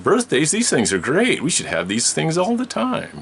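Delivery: imitating an excited little boy; childlike delight. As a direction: gush about birthdays like an excited child.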